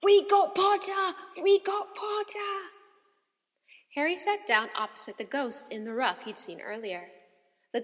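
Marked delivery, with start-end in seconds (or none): 0.0-2.7 high, loud triumphant chant; yelling twins. A narrator's reading. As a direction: cheer it out in triumph. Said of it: "the Weasley twins yelled".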